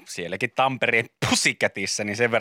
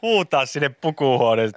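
usual speaking voice

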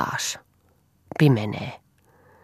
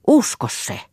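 "Usko se" cried out much higher and louder; urgent plea; 10 semitones higher, 4 dB louder than usual. Acted. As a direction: burst out begging him to believe. Pleading lover repeats plea.

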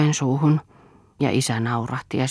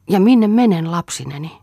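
anxious cry; 5 semitones higher, 4 dB louder than usual. Acted. Lea asks in despair.

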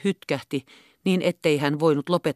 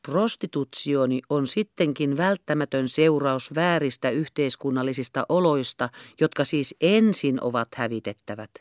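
as gently as possible; 2 semitones lower, 3 dB quieter than usual. Acted. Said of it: "lisäsi niin vienosti kuin taisi".

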